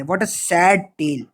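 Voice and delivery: slow, playfully mournful sigh of a line; mock sad. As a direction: pretend to grieve, very slowly. Mock lament over parallel lines. (धीमा, नकली दुख भरा अंदाज़)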